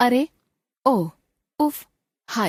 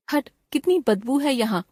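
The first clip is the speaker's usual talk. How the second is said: disgust; 5 semitones higher than usual. Shown as a demonstration. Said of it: "तिरस्कार तथा घृणा सूचक".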